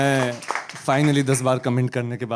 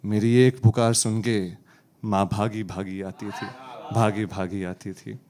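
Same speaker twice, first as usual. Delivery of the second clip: poem recitation; 5 dB louder, slower than usual. Acted.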